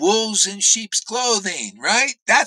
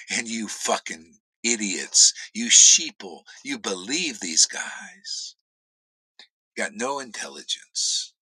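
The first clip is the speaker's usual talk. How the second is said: scornful whisper; 9 semitones lower than usual. Real, not acted. Scornful aside to followers.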